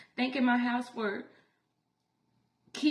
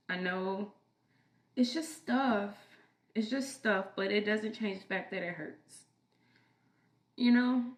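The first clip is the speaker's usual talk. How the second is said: cracking tearful heartbreak. Real, not acted. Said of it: "I'm sorry for crying on camera".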